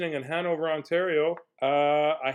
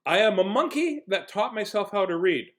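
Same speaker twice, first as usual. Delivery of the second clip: hammed-up declaration; 6 semitones higher, 3 dB louder than usual. Reading book's silly monkey claim.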